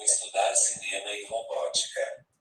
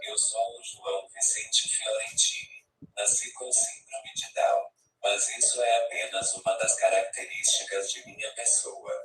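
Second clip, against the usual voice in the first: robotic text-to-speech voice from a tablet app; synthesized voice. Real, not acted. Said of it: "Com essa voz sintetizada que vocês estão ouvindo".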